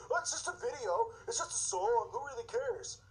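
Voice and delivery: mocking a shrugging bystander; mock dismissive shrug. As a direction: brush it off like it's nothing. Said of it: "they go".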